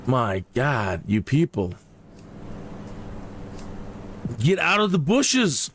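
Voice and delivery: wag a finger at the revellers; scolding king. Retold or imitated. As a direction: Alexander scolding the Greeks, hammed-up sternness. Alexander lecturing partying Greeks.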